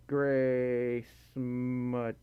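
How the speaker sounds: slow, stretched words, a little low; drawn-out reading. Real, not acted. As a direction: read it out very slowly while typing. Spelling out a name while typing.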